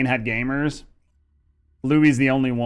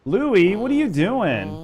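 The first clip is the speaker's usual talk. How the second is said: surprised call; 7 semitones higher, slower than usual. Real, not acted. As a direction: call out in real surprise at the raid. Surprised streamer calls out to raider.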